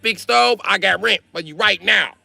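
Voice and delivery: stingy landlord asking for rent; mock Asian landlord accent. Landlord voice in phone quarrel.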